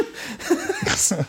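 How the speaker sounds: high-pitched burst of laughter. Real, not acted. Laughs at own story.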